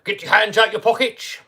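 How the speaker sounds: mock a teacher's order to pupils; Mister Neild. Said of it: "Mister Neild used to be like".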